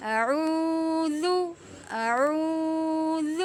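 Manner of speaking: اعوذ ending in a soft ذ without a whistle; soft zaal. Shown as a demonstration. Teacher modelling the soft final ذ, slow. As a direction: close اعوذ gently on the ذ, no hiss. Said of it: "زال کو ہم نرمی سے پڑھیں گے".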